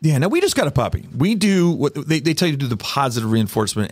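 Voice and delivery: usual speaking voice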